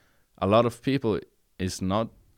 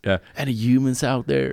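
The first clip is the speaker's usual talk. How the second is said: lightly voiced radio survivor calling out; a hint of a lonely wasteland broadcaster; weary wasteland radio host; 5 semitones higher than usual. Post-apocalyptic radio call.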